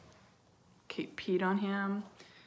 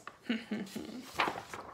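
soft, closed evil chuckle; sinister chuckle; 7 dB quieter than usual. A narrator's reading. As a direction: chuckle slyly at their fright. Menacing storyteller chuckle.

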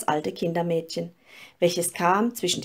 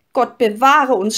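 put-on louder, alarmed cry of young ladies; mild frightened cry; 4 semitones higher, 7 dB louder than usual. A narrator's reading. Young ladies seeing the tree catch fire, crying out in alarm. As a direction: gasp it out as the candle catches. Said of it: "schrien die Fräulein".

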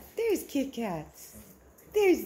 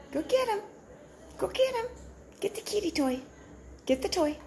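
excited urging; 9 semitones higher, 5 dB quieter, much faster than usual. Real, not acted. Urging the dog on.

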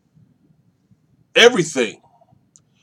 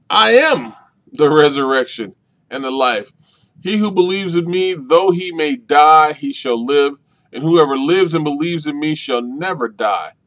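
proclaiming; 4 dB louder than usual. Acted. Preacher proclaiming Jesus' words.

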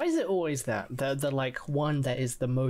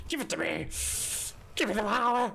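power-hungry shout; 7 semitones higher, faster than usual. Pretend. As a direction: demand it like a mad tyrant.

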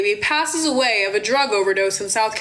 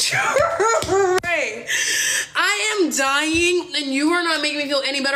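higher, whiny mock cry; tearful protest; 4 semitones higher, slower than usual. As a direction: plead with your brother through put-on sobs. Retold crying plea to brother.

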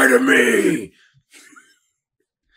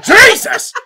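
high, loud shocked cry; loud mock scream; shriek; 13 dB louder than usual. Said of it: "It's like".

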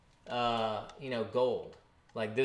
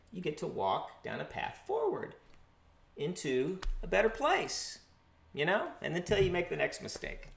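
announcer voice. Acted. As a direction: talk like a soothing art-show host. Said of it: "do I have to have an announcer voice".

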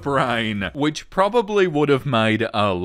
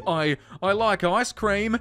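flustered stammer; 4 semitones higher than usual. Acted. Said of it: "Tries to form words".

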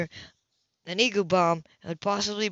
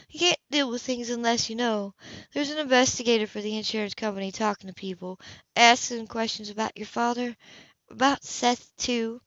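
a hint of a caring older woman, gently worried; lightly voiced older woman; 3 semitones higher than usual. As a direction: speak to him like a fond neighbour breaking bad news. Woman character voiced in story.

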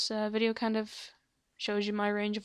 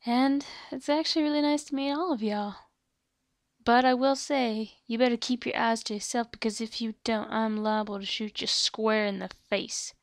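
gunslinging western character voice; Desert Rose; 3 dB louder than usual. Acted. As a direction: talk like a gunslinger warning the newcomers. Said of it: "a gunslinging kind of voice like this".

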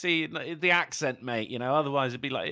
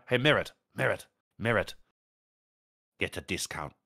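mock Chinese accent; 10 semitones lower than usual. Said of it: "likes to be a Chinese stereotype".

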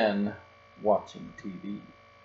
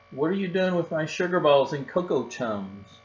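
higher, louder indignant father; indignant shout; 5 semitones higher, 4 dB louder than usual. Acted. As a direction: demand an answer over his snacks. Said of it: "shouted Papa".

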